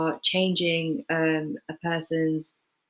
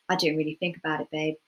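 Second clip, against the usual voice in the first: Essex accent; 5 dB quieter, faster than usual. Shown as a demonstration. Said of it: "someone who was born in Essex".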